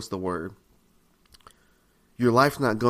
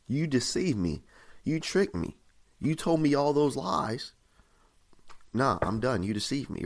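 hurt accusation; 4 dB quieter than usual. Acted. Betrayed person confronting a friend, mildly hurt and accusing. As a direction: play someone feeling let down by a friend. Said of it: "how do you feel towards that person".

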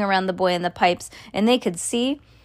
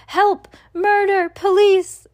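loud, high panicked cries; screaming for help; 10 semitones higher, 5 dB louder, slower than usual. A narrator's reading. Mother screams as her son vanishes, high panicked cry. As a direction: cry each word out separately, high and loud. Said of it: "screamed Missus Gloop".

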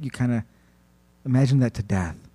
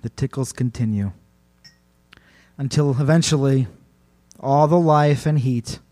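measured storytelling, sinking away at the end; spaced phrases, fading into doom; horror narration. A narrator's reading. Host tells of life draining away, measured horror narration.

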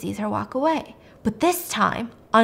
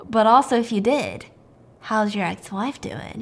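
slowing into a pointed, creepy question; creepy veiled threat. Retold or imitated. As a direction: act out a thinly veiled threat, drawing out the end. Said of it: "it sounds really creepy, like a threat".

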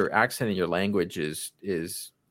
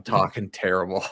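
Boston accent. Shown as a demonstration. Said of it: "Boston is a terrible one".

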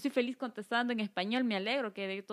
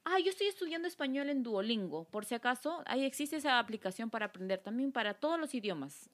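mocking coworker; 4 semitones higher than usual. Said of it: "así".

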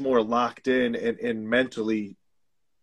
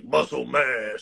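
slow dopey bro voice; woman faking man voice; much slower than usual. Retold or imitated. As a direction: drag out muscle mass like a dumb gym bro. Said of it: "Every time you do guy voice".

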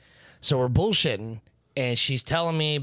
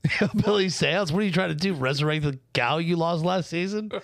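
higher, mock-yokel teasing; mock hillbilly; 5 semitones higher than usual. Friend teasing the hillbilly seance joke, yokel voice. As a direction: tease in a put-on country voice.

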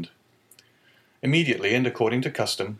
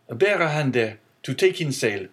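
higher, louder command to the crew; calling orders; 4 semitones higher, 3 dB louder than usual. Acted. Young sailor orders the crew to take in sail, firm call.

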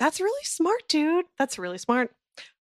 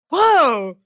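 loud, higher startled whoa; startled owner; 5 semitones higher, 6 dB louder than usual. Pretend. Loved one confronted by a meowing cat, startled. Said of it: "And they'd be like".

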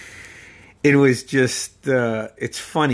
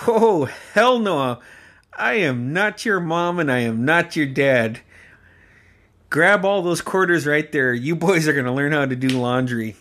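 stern uncle refusal; 4 semitones higher than usual. Retold or imitated. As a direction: lay down the law, half joking. Uncle refusing, scolding the boys.

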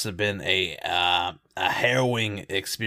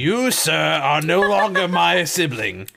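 mock outrage; 4 semitones higher, 4 dB louder than usual. Mock sibling quarrel.

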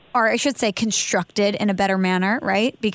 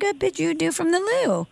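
way up high, light and silly; mock falsetto sign-off; 8 semitones higher than usual. Shown as a demonstration. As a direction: pop your shoulder and say it high. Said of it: "say it in a high voice".

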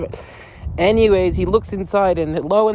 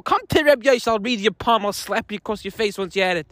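mock angry rant; 3 semitones higher than usual. Ranting at the palm reader.

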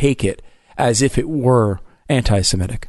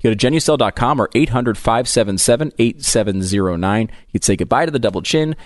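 upbeat host-read commercial; 3 semitones higher than usual. Acted. Host reads a skincare ad to listeners, upbeat ad read. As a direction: sell the cream, pitch it brightly.

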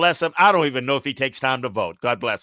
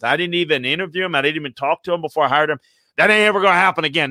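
hurried mock coach excuse; 3 semitones higher, much faster than usual. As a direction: rush through the excuses in a lightly voiced coach. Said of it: "it's like".

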